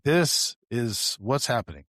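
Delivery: slow, deliberate explanation to the victim; slow explaining. Retold or imitated. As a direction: lay it out slowly so she gets it.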